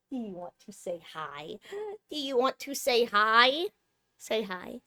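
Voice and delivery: soft pet talk with lilting questions; coaxing a pet. Real, not acted. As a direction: gently coax a cat to respond. Coaxing the cat to greet.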